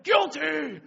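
loud, high imitated verdict; crowd shout. Camp crowd answering megaphone, high loud shout. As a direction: yell it like a whole mob.

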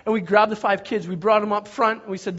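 normal talking voice

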